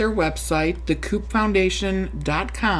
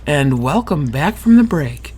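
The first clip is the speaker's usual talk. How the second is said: smooth announcer delivery, a touch louder; radio voice; 3 semitones lower, 4 dB louder than usual. Shown as a demonstration. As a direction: say it like a radio host welcoming listeners back. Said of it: "In your radio voice".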